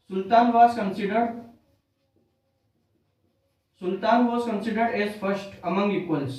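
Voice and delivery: very slow, every word spaced out for note-taking; slow dictation. Shown as a demonstration. Teacher dictating the key phrase to students, very slow and deliberate. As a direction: spell it out slowly so students can write it down. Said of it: "teacher dictates key phrase".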